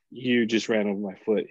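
calm, even statement; understated retold calm. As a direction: say it like nothing is wrong. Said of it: "calm as could be".

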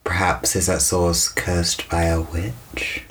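low, slow, portentous question; mysterious, drawn-out intro; ominous storyteller. Pretend. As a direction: draw it out like a spooky tale. Ominous lead-in to a tale.

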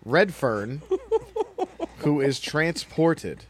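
mock Boston accent trailer voice; hint of a Boston accent in a trailer read; lightly Boston-accented movie trailer narrator.

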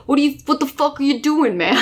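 a mild mock scolding from a racing sidekick; side character impression. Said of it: "my impression of this random side character".

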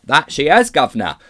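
loud, cheeky Cockney heckler; onlooker in crowd. A narrator's reading. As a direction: call out from the crowd, loudly. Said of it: "said one of the crowd".

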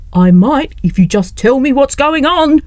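a touch of desperate pleading; pleading cry. Acted. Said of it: "cried Leslie".

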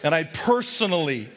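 mock priest. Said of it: "Are you really a priest?".

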